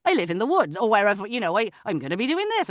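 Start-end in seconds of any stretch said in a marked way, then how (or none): 0.0-0.8 practice phrase with an Irish lilt; Irish accent, swooping pitch. Shown as a demonstration. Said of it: "like an Irish accent". 1.6-2.7 quick, higher Irish warm-up; Irish accent. Shown as a demonstration. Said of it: "like an Irish accent".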